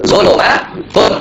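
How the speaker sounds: "zulumatun" drawn out very slowly to its -un ending; model -un reading. Shown as a demonstration. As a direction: stretch out "zulumatun", ending in -tun. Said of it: "berarti bacanya".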